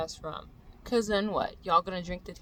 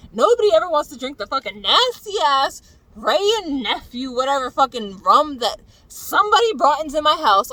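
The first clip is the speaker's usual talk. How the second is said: loud, rising angry rant at friends; furious rant; 4 semitones higher, 10 dB louder than usual. Real, not acted. Ranting at friends who drink her tequila, furious yelling. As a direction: build into a real furious yell. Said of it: "it makes me really mad".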